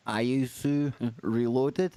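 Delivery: slow, careful try at Ayusu Reloaded; unsure reading of an unfamiliar name; careful pronunciation attempt. Real, not acted. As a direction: sound out Ayusu Reloaded slowly, each syllable placed. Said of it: "Can't say it".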